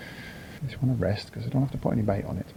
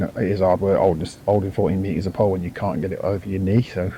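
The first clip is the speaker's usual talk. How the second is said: straining; 2 semitones lower than usual. Real, not acted. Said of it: "Sorry if I'm sound like I'm straining".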